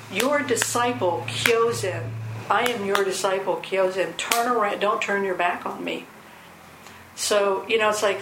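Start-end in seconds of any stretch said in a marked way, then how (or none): 0.1-6.0 blunt disciple calling out; direct. Retold or imitated. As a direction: plainly insist on respect. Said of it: "he says".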